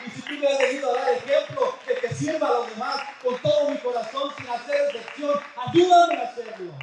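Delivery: earnest prayer to the Lord. Acted. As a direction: pray it sincerely, rising. (oración ferviente)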